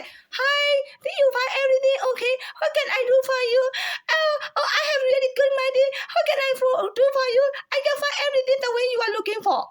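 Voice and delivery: high, overpolite cashier voice; classy cashier voice. Pretend. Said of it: "Don't force me to talk like that".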